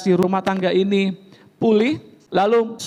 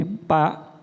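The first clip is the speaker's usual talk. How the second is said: wise and calm; 5 semitones lower, slower than usual. Retold or imitated. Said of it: "Gembala dengan bijaksana berkata".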